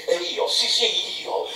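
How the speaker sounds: a captain boiling over at an insult; outraged Peleg. A narrator's reading.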